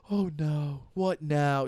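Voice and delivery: lightly voiced resigned mother; a touch of mock dread, as mom; imitating disappointed mom. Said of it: "she's used to being so disappointed".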